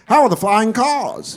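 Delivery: high, slow, hopeful question; eager fifties person. Retold or imitated. Fifties folk to time traveler, eager. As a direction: ask it like a wide-eyed old-timer.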